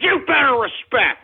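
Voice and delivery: angry demand. Real, not acted. Angry demand to his audience.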